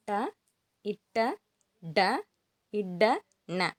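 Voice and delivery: retroflex ட series ending in ந, each sound isolated; letter pronunciation demo. Shown as a demonstration. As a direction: model ட and இட்ட singly with clear pauses. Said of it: "This letter should be pronounced as".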